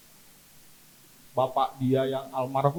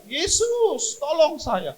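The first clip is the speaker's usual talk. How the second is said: loud, high cry for help, easing at the end; shouting; 6 semitones higher, 8 dB louder, slower than usual. Retold or imitated. Covid patient shouts to Jesus for help. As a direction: shout out, then plead. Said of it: "Saya teriak".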